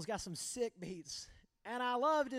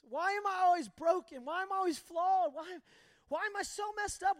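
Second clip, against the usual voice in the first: higher pleading cry to God, a touch of tears; retold weeping prayer; 4 semitones higher than usual. Alone outside after the fight, a higher pleading prayer to God. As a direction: plead with God, near breaking. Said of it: "I'd sit outside just weeping".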